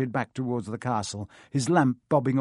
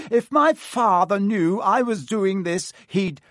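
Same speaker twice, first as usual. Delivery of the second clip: lightly voiced snobbish protest; whiny Malfoy; 7 semitones higher, 4 dB louder than usual. Malfoy complaining to Hagrid, higher and indignant.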